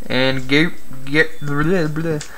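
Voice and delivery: stumbling over the name; tripping on words, sputtering; tongue-tied. Real, not acted. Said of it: "now I can't talk".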